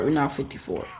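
whispered aside. Real, not acted. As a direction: whisper it to yourself. Muttering during game.

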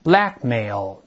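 Blackmail with the weight on Black, low falling finish; stress on first syllable. Shown as a demonstration. Teacher repeats Blackmail for the class, first-syllable stress. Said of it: "重音在第一个音节".

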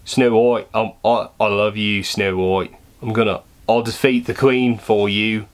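badly faked Australian huntsman; terrible Australian accent. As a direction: act the huntsman in bad Australian. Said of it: "this is terrible Australian".

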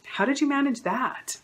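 high, bright praise with a snide question; mock cheerful jab at a coworker; backhanded congratulations. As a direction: sweeten the words, then needle. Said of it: "they can say something like".

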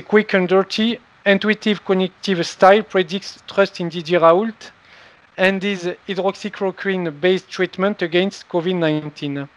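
English title read in a heavy French accent, slightly slow; joking about own French accent in English; self-mocking French-accented English. Real, not acted. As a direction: read the English words like a French speaker, owning the clumsy accent. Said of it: "avec mon superbe accent anglais".

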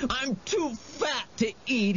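high, whimpering plea; frantic supplication. A narrator's reading. Wendell tries to talk the monster out of eating him, pleading. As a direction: plead desperately to be spared. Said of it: "began a new round of supplications".

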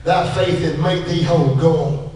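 low, solemn quoted blessing; Jesus's pronouncement. Acted. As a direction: pronounce it low and gently final. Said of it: "Jesus said".

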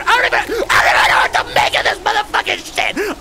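high, rapid baffled shouting; exasperated outburst. Real, not acted. Player baffled by a bizarre game, exasperated outburst. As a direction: erupt in high-pitched bewilderment.

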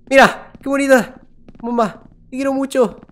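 put-on high, loud cooing baby talk; cooing to a pet. Player cooing lovingly at the bomb character. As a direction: coo at it like a cute pet.

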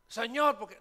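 high, loud why to heaven; mock anguished cry. Patient crying out to God after the diagnosis, loud high anguish. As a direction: cry out to the Lord in despair.

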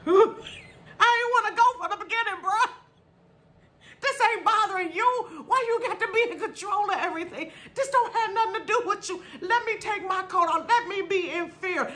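high, laughing backtalk to her dad; childish protest. Retold or imitated. Kid talking back to drunk dad, high and laughing. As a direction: argue back like an indignant kid, giggling. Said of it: "And I'm like".

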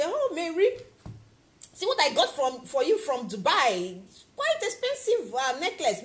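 a lightly voiced proud friend handing over a gift; proud giver. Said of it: "You will be proud and hold it and say".

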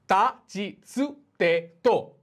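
তা, চি, চু as "ta, chi, tsu", then তে, তো; syllable drill. Shown as a demonstration. Teacher drills the t row, each syllable separate and clear. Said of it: "খেয়াল রাখবেন".

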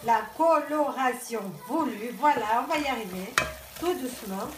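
stuffy head cold voice; talking through a blocked nose. Real, not acted. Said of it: "je suis un petit peu enrhumée. J'ai le nez bouché". (voix enrhumée, nez bouché)

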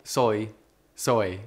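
"Soy." said the Australian way, like "so". Shown as a demonstration. Host demonstrating how Australians say "soy". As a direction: repeat "Soy." with an Aussie vowel. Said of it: "sounds like you're saying so in Australian accent".

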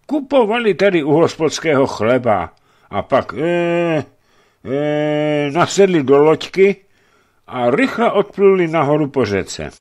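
put-on a nervous young servant groping for words; hesitant servant. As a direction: stammer it out like a timid servant. Servant Jakub continues.

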